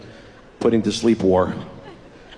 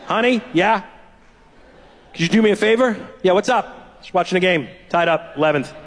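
sweet wife; 5 semitones higher than usual. Retold or imitated. Wife asking sweetly, high.

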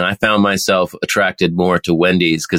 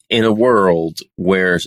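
movie trailer voice; slower than usual. Pretend. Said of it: "sounds like a movie trailer".

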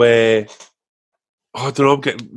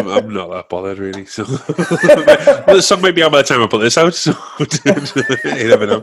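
laughing; 2 semitones higher, 5 dB louder than usual. Real, not acted. Laughing while talking.

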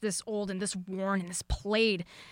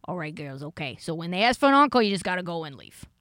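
put-on light Boston accent, lower voice; a hint of a wicked Boston accent; 3 semitones lower, 4 dB louder than usual. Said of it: "I'm gonna do my best wicked Boston accent".

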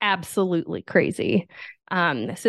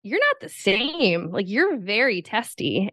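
a husband puzzled by his changed wife; mock bewildered husband; 3 semitones higher than usual. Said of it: "Nick was like".

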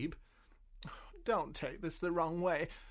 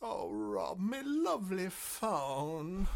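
mournful; 5 dB quieter, slower than usual. Acted. Mourning the broken phone.

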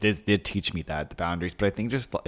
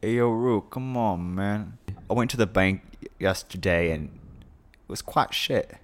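mock British accent; slower than usual. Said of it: "He's like".

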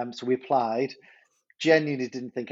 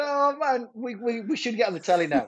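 excited thought; 7 semitones higher than usual. Retold or imitated. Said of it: "I'm thinking".

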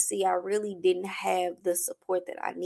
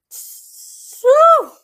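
exhale; 14 dB louder than usual. Real, not acted. Overwhelmed exhale mid-story.

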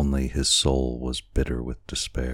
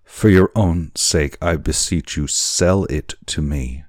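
pleading cry; 2 semitones higher, 5 dB louder than usual. Acted. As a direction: beg earnestly, easing off as it goes. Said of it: "Kiawe cried".

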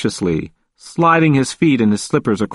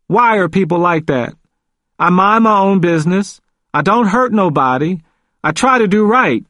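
high-pitched, aggrieved protest; growing agitation; 8 semitones higher than usual. A narrator's reading. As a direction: plead your innocence, getting worked up. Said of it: "He was becoming agitated".

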